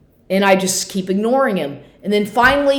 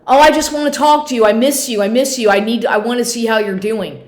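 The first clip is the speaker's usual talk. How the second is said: higher and fast, a hammed-up begging ex; mock whiny ex; 4 semitones higher, 4 dB louder than usual. Ex begging through the door, higher mock whine. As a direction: imitate him pleading, pitched up and rushed. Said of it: "he kept, kept saying".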